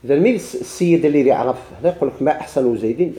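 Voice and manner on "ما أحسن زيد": زيد ends in -in with the phrase rising as a question; questioning reading. Shown as a demonstration. Teacher reading the example as a question, rising end. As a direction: read ما أحسن زيد as a question, زيد with -in. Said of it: "ما استفهامية".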